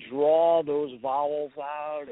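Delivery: slow, stretched Southern-belle vowels; drawn-out vowels. Shown as a demonstration. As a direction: draw the vowels out lazily.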